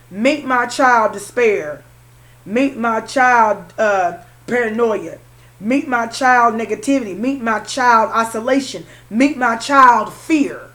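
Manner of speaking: put-on slow, ominous introductions of each child; lightly voiced devil, drawn out; Lucifer voice. Reader quoting Lucifer introducing his children, slow and ominous. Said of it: "what did Lucifer say?".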